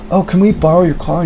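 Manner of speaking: high, falsetto mock sweetness; hammed-up sugary con man; sweet-talking dealer. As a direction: coax him like a fake friend. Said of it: "They said".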